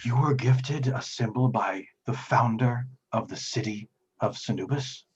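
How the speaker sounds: lightly acted priestly awe; gasp, then ask in measured formal disbelief; astonished devout priest.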